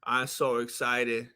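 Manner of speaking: under the breath, barely containing it; excited whisper before the walkout; hushed excitement. Real, not acted.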